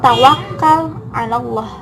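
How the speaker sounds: "tawakal" stressed hardest, "ala Allah" lighter after it. Shown as a demonstration. Presenter showing classmates a stressed verb, "tawakal" stressed. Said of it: "diberi tekanan yang paling tinggi".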